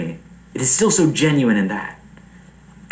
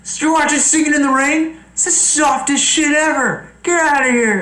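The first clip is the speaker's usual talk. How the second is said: high, loud teasing taunt; mock tough friend; 4 dB louder than usual. Kevin mocking him for watching Singing in the Rain, teasing taunt. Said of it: "he went".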